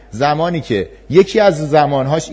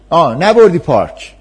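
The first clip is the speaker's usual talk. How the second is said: put-on whiny child; 3 semitones higher, 7 dB louder than usual. Child complaining to parent.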